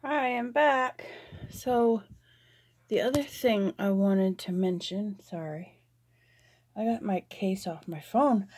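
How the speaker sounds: breathless after climbing stairs; out of breath. Real, not acted. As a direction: talk while catching your breath. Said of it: "so I'm all out of breath".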